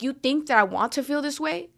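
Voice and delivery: heated, rising reenactment of the fight; retold angry outburst. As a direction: throw the complaint back at him, getting hotter. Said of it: "I would tell him, like".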